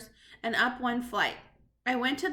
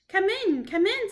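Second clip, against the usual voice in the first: loud, higher impatient snap; snapped; 8 semitones higher, 7 dB louder than usual. Acted. The witch snaps at her timid visitors. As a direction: clip it off, impatient. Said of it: "snapped the Grand High Witch".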